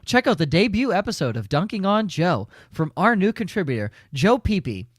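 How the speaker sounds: crisp, upbeat news anchor read; newscaster voice. Acted. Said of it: "I'll do it in my newscaster voice".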